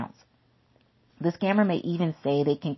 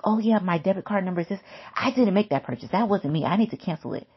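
mock panic; 4 semitones higher, faster than usual. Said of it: "you're freaking out like".

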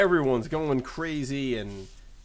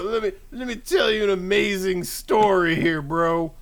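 shouting match; 4 semitones higher than usual. Pretend. Acted quarrel, Buddy bragging.

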